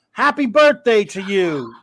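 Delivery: beaming birthday greeting; excited. Real, not acted. Announcing birthday.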